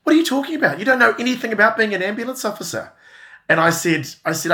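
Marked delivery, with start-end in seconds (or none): 0.0-2.9 high, loud mock scolding; hammed-up exasperated mother; mother scoffing at her son playing a paramedic; scolding mum.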